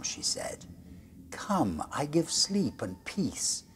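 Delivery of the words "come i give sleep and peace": high, slow, hypnotic whisper; soft soothing vampire. Acted. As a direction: lull him to sleep with an eerie whisper. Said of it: "a soft, soothing voice".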